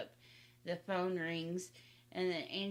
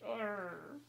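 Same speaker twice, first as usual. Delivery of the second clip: exasperated mom growl, imitated; mock growl; 2 semitones higher than usual. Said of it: "And Mom was like".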